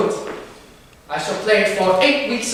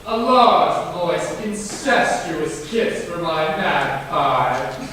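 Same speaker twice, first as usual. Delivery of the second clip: slow, lower, savoured mock endearment; hammed-up endearment; 3 semitones lower, much slower than usual. Greeting Maggie with a theatrical kiss, slow and lower. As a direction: drag it out grandly.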